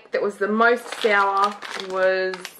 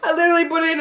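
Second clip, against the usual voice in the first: laughing; 9 semitones higher, much faster than usual. Real, not acted. Laughing during candy challenge.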